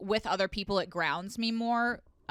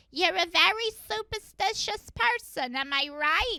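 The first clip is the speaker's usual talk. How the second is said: put-on New York Long Island accent; 10 semitones higher than usual. Quoting what a fortune teller said during a reading, thick Long Island accent. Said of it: "She had a very thick Long Island accent".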